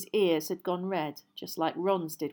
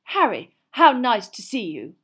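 lightly voiced formal young man; mildly stiff, formal greeting; louder, measured solemn hello; 4 semitones higher, 10 dB louder than usual. A narrator's reading. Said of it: "held out his hand solemnly".

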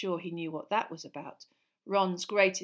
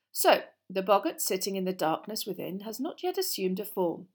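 lively, louder classroom lecture; lightly voiced teacher; 5 dB louder than usual. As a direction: project like an encouraging teacher.

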